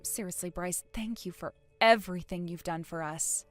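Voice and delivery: understated tearful sincerity; happy tears. Acted. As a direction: gently overcome with thankfulness. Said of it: "can't stop myself from crying".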